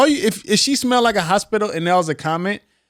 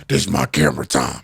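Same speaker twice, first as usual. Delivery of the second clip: much lower, put-on diva voice; mock diva; faster than usual. Mocking a reality star hogging the camera, low and gloating.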